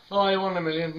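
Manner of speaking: mock gushing. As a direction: imitate someone paying a gushy compliment. Mimics the compliment again.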